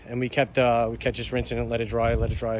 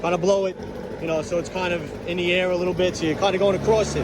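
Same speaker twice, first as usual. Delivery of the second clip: yelling over leaf blower. Real, not acted. Sorry about the blower.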